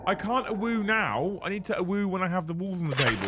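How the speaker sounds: high whooping awoo; playful wolf howl voice. Pretend. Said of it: "I can't do my best one now".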